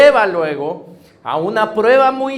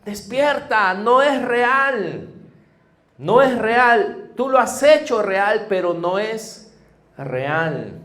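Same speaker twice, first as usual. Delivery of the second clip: calling from heaven; 4 semitones higher, slower than usual. Acted. The heavenly Father calling his children to wake up, higher and slow. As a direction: call slowly from far above, urging them awake. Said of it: "nuestro Padre nos está gritando".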